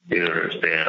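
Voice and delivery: normal talking voice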